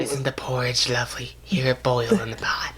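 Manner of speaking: hushed, low, playful whisper; creepy mock whisper. Prankster whispering through a mail flap at night, creepy whisper. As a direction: whisper it softly like a lurking prankster. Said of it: "whispering the thing".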